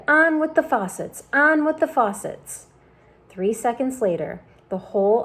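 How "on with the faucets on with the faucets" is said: high, loud booming call from above; shouted. A narrator's reading. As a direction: shout down from the cloud. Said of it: "it shouted".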